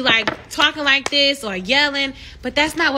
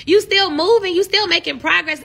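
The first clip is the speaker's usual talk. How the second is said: fervent encouragement; 5 semitones higher, 3 dB louder than usual. Real, not acted. Preaching encouragement to viewers.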